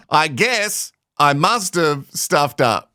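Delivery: slow, drawn-out sarcastic parroting; mock apology. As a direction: drag it out to mock him. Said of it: "taking ownership without really taking ownership".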